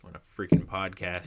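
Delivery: marker clamped in mouth; talking around a pen; pen in teeth. Real, not acted. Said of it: "speaking with a Expo marker in my mouth".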